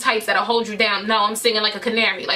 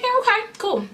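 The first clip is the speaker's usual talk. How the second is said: mock eager yes; 10 semitones higher than usual. Agreeing to hang out.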